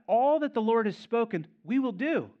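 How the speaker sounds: crying out. Retold or imitated. Israelites cry their pledge to Moses, loud and high. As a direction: call out the vow to Moses. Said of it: "they cried out".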